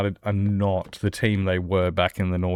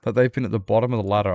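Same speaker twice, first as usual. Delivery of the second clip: bewildered fan asking why; baffled high voice; 5 semitones higher, faster than usual. Retold or imitated. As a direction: voice shooting up in confusion at an unknown team. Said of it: "and I was just like".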